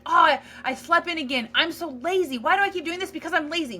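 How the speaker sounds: mock the voice that calls itself lazy; whiny self-blame.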